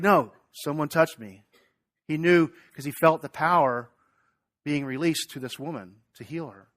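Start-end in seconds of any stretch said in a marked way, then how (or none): 0.0-1.4 slow, firm, louder insistence; Jesus holding his ground; Jesus insisting to the disciples, slow and firm; insistent Jesus. Acted. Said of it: "he's like".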